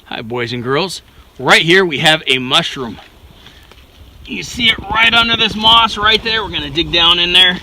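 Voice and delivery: put-on high, cheery kids show host; overbright kids party host. Greets boys and girls, kids show.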